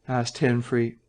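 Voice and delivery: ordinary delivery, nothing marked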